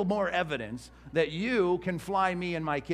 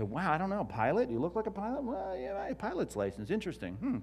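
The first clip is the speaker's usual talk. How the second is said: doubtful; 4 semitones higher, 4 dB quieter, faster than usual. Pretend. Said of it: "I can look at you and say".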